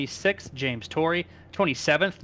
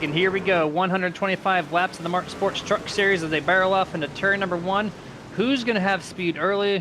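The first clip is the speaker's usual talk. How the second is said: live play-by-play; 3 semitones higher than usual. Real, not acted. Announcer calls the green flag for fans, live play-by-play. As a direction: call the start with lift and drive.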